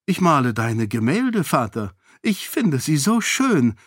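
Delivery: innocent. Acted. Daughter sweetly flattering the king's paintings. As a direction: lay the flattery on guilelessly. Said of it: "erwiderte Sarene unschuldig".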